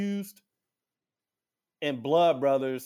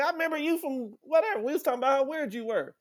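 higher, lightly put-on voice of the guitarist, quickening; guitarist voiced; 10 semitones higher, faster than usual. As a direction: tease him back in a mock voice.

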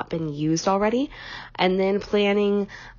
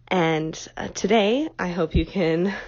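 stuffy, nasally voice from a cold; 3 dB louder than usual. Real, not acted. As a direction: talk through a blocked, nasal nose. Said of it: "forgive me for my bit of a nasally voice".

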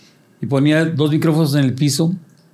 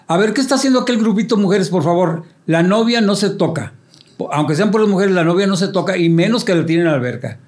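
higher-pitched playful scolding; lightly acted announcer reprimand; mock MC warning; 4 semitones higher than usual. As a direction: pretend to forbid what you are inciting. Acted mock warning that incites crowd.

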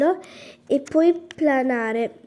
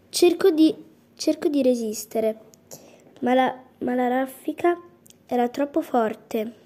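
plain reading voice

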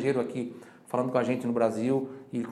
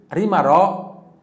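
model phrase again; 4 semitones higher, 7 dB louder than usual. Shown as a demonstration. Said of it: "Mais uma vez".

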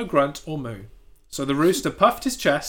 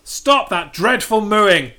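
slow, loud, higher rooster scold; squawking rooster; 5 semitones higher, 6 dB louder, slower than usual. Acted. Rooster scolding the mooing cows, slow and loud. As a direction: drag out the scolding like a pompous bird. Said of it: "he squawked".

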